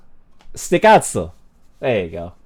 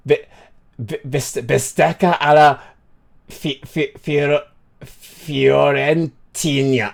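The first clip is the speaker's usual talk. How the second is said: Fiorentina drawn out very slowly, piece by piece; slow sounding-out; slower than usual. Real, not acted. Streamer attempting an Italian dish name, slow sounding-out.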